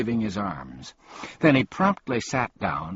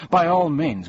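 emphatic; 8 semitones higher, 6 dB louder than usual. A narrator's reading. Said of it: "he announced".

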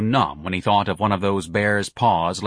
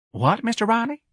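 flustered; 13 semitones higher than usual. Acted. Gonzalez flustered.

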